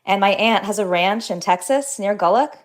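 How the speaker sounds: author reading her own novel, even and measured; reading aloud. Acted. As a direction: read the passage like a book excerpt. Author reads excerpt from her novel.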